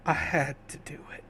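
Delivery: weak, soft, fast dying words; fading strength. Acted. Dying man explains himself to the kid, weak and soft. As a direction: explain yourself with failing breath. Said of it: "as the strength fades from him, and he says".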